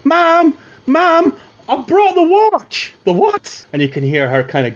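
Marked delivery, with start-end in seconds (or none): 0.0-2.9 put-on high, carrying call of a boy; calling out to mum. 3.0-3.7 high, surprised call from another room; a hint of a woman calling back; startled mother. Mother inside the hut calling back to her son, high and surprised.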